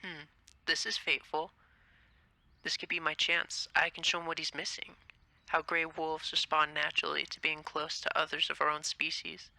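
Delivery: plotting to herself; inner thoughts. Acted. Juno quietly schemes to herself about Legoshi. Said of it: "as she thinks".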